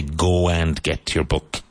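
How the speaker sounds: measured "go and get", every word separate; full form with "and". Shown as a demonstration. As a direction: say "go and get your book" slowly, AND clearly sounded. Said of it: "It's better to say".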